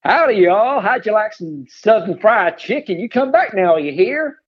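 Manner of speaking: an English speaker's attempt at a Southern US accent; a shy, slightly exaggerated Southern US accent for fun. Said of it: "Can you do a southern accent?".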